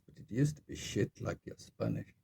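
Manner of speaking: deadpan, matter-of-fact retold insult; imitated straight-faced remark. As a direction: deliver it without a hint of irony. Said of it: "not a hint of anything".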